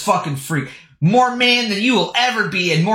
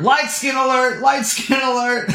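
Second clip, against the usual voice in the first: mock alarm; 5 semitones higher than usual.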